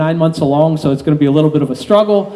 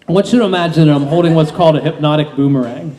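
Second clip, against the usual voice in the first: hypnotist induction. Acted.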